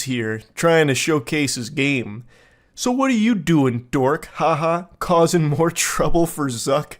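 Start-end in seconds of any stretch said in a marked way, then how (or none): 2.7-6.9 teasing, lightly put-on lilt; mock-playful ribbing; playful insults. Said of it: "going for, like, the playful insults".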